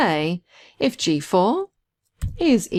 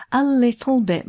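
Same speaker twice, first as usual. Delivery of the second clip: "a little bit" set apart with raised emphasis; stress on A LITTLE BIT; 6 semitones higher than usual. Real, not acted. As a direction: lean on "a little bit", pitched up. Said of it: "I emphasize the word a little bit".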